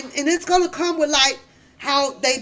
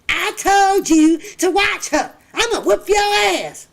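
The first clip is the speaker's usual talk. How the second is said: higher, louder mother threat; mock angry mom; 6 semitones higher, 4 dB louder than usual. Mother voiced in retold scene.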